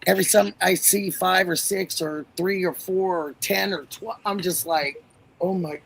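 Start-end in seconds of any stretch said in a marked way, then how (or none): 5.4-5.8 slow, drawn-out dismay; high and slow, overwhelmed; exasperated oh my gosh. Retold or imitated. Overwhelmed by the many cases.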